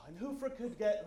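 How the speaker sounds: normal talking voice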